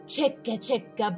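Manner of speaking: usual speaking voice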